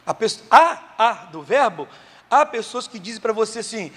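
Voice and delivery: ordinary talk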